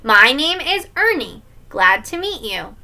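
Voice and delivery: lightly voiced puppet character; a hint of kid playing Ernie; Sesame Street voice. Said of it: "his best Sesame Street voice".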